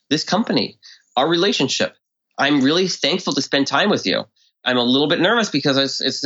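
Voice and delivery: lively, sincere, up-and-down voice; emotional tonality. Shown as a demonstration. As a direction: show real appreciation with feeling. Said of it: "You wanna use more emotional tonality".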